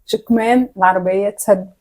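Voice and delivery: slow, soft and mouthed; slowly. Shown as a demonstration. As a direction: spell it out slowly for lip reading. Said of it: "لا، بالراحة".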